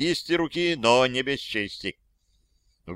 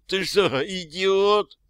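angry disbelief; 8 semitones higher, slower than usual. Acted. Mafioso yells at captor.

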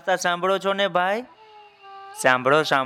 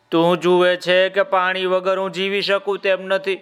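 crocodile voice; 5 semitones higher than usual. Acted. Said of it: "બોલો કે".

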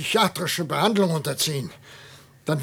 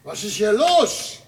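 überrascht; 7 semitones higher, 4 dB louder than usual. Acted. Professor ertappt Einbrecher nachts.

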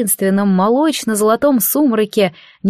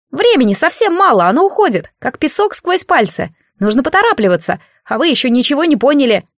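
put-on higher, hurried boyish warning, faster at the end; urgent child god; 4 semitones higher than usual. God in boy form warning the priestess, urgent. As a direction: press her before time runs out.

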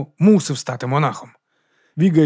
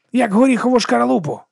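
excited exclamation; 9 semitones higher than usual. Acted. Viga urges the monk to cast it away, excited. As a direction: throw the simile out with glee.

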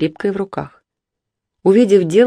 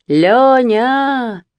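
calling out; 7 semitones higher, 3 dB louder than usual. A narrator's reading. Called through window from outside.

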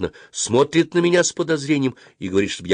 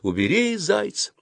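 high, understated yelled command; yelled order; 12 semitones higher than usual. A narrator's reading. Dentist ordering her helper about the toy, mild yell. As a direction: order it sharply, pitched well up. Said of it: "заорала врачиха".

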